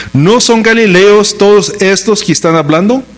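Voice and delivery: astonished question. Acted. Crowd's amazed question voiced from scripture.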